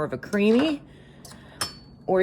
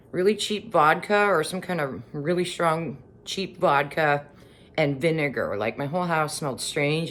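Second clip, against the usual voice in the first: chewing while talking; 3 semitones lower than usual. Real, not acted. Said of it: "sorry, I'm chewing".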